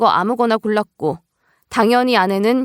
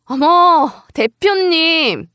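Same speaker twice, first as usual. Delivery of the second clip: high, loud, drawn-out mock-surprised greeting; loud interruption; 6 semitones higher, 4 dB louder, much slower than usual. Employee's wife cuts off the angry boss, loud interruption. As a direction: cut in loudly and stretch the title out. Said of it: "큰 목소리로 대표 말을 딱 잘라버렸죠".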